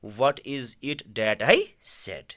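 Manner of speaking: very slow, word-by-word reading; slow reading aloud. Shown as a demonstration. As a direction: read it slowly for the students. Teacher rereads the English line. (آہستہ آہستہ پڑھنا)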